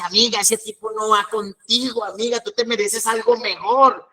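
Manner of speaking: lightly voiced friend talking like a sappy love song; a hint of a pop duo's ballad, spoken; mock melodramatic consoling. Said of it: "como hablan las canciones de planchar".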